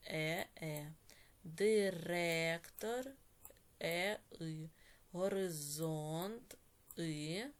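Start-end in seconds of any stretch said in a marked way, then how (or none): 1.4-3.1 slow dictation. Shown as a demonstration. Teacher dictates while underlining. 5.1-6.6 slow dictation. Shown as a demonstration. Teacher dictates while underlining.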